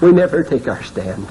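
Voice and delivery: usual speaking voice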